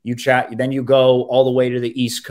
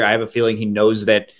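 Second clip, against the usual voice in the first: ordinary delivery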